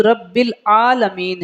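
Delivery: second "رب العالمین" as rabbe-laalameen, ع lost; wrong reading. Shown as a demonstration. Teacher shows the mistake people make, slurred "رب العالمین". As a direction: slide an l into "العالمین". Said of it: "پڑھ دیتے ہیں".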